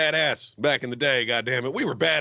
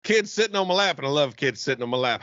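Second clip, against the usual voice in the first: high mock politician impression; Joe Biden; 4 semitones higher than usual. Teasing the co-host who banned it, mock presidential impression. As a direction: imitate a rambling old president. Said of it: "Do not reference back to Biden".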